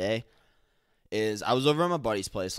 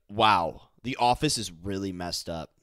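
bitchy tone; 3 semitones lower than usual. Retold or imitated. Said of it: "paralinguistics were a little bit bitchy".

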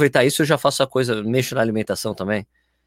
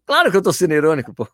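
mock-indignant comeback, a bit raised; exasperated retort; 5 semitones higher, 4 dB louder than usual. Podcaster retelling his reply to followers who missed the joke, exasperated. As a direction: answer as if it were blindingly obvious.

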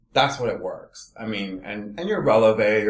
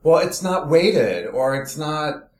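imitating flustered objectors, pitched higher; flustered complaint; 6 semitones higher than usual. Beginners object to the unanchored barre, flustered. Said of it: "people get all flustered".

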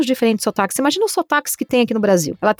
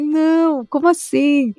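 higher-pitched retold disbelief; incredulous protest; 5 semitones higher, slower than usual. Voice artist questioning a developer's claim, incredulous. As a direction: protest as if you can't believe it.

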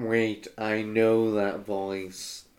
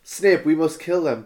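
a touch louder, urgent Dumbledore; mild mock shout; 4 semitones higher, 5 dB louder than usual. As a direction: urge Snape in a lightly raised voice. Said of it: "Dumbledore shouted".

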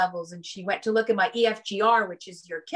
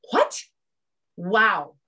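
imitating a stunned doctor; mock disbelief, in two separated exclamations; flabbergasted; 4 dB louder than usual. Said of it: "She was flabbergasted".

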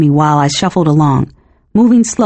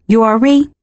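higher, lightly voiced teenage girl; innocent young woman; 5 semitones higher than usual. A narrator's reading. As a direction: ask with a touch of innocent eagerness. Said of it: "suggested innocence, or maybe enthusiasm".

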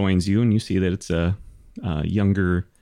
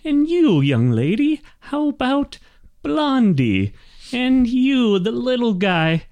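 high-pitched, bossy little wagon master; chatty old gnome; 13 semitones higher than usual. Acted. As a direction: rattle on as a high-voiced oblivious gnome. Gnome wagon master hands out nicknames.

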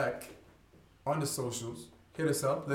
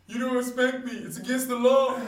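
put-on bratty kid, higher and louder; defiant kid; 9 semitones higher, 7 dB louder than usual. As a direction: play the defiant child. Kid voiced defying parent.

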